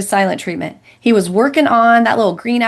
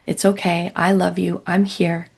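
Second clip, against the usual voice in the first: imitating reassuring husband. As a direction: gently talk her down, mildly voiced. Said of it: "He speaks reassuringly".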